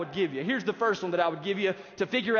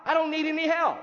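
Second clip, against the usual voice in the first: proud self-reliance; 6 semitones higher than usual. Retold or imitated. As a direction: draw it out like a smug know-it-all. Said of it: "as if he's saying now".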